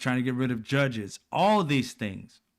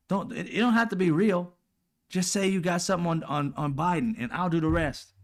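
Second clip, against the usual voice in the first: mock pushy leader; 6 semitones higher than usual. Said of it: "The same shit he said to, uh, Zelensky".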